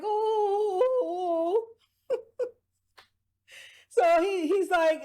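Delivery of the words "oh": a high, strange little oh; a lightly voiced, high, weak oh; high mock gasp. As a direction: play her limp little gasp. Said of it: "and she's like".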